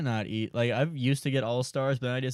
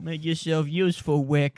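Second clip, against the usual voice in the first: louder bossy mock father; bossy dad voice; 4 semitones higher, 5 dB louder than usual. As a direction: bark it like a mean dad. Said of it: "echoing dad, louder".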